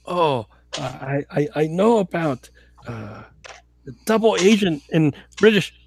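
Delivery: lightly played drunk Russian; drunk Russian agent. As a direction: stumble through it like a tipsy spy.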